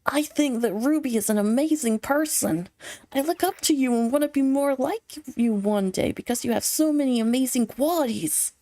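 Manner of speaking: lightly voiced earnest anime boy. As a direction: read it like a shy anime dub boy. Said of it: "a little anime boy voice".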